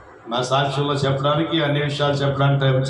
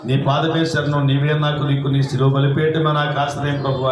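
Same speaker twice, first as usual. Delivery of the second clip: fervent prayer. Shown as a demonstration. Preacher showing the congregation how to begin dawn prayer, fervent pleading. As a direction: pour it out as an earnest prayer to the Lord. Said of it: "అని మనం ప్రార్థన మొదలు పెట్టుకోవాలి".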